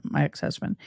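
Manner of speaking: a quick whispered aside; whispered correction. Real, not acted. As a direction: drop to a whisper to fix the word. Quiet self-correction aside.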